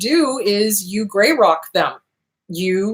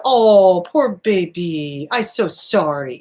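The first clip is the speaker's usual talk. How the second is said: mock sympathy; 3 semitones lower, much slower than usual. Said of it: "Sympathy is the".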